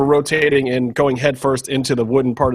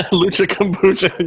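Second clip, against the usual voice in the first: laughing; 6 semitones higher than usual. Real, not acted. Repeats pun while laughing.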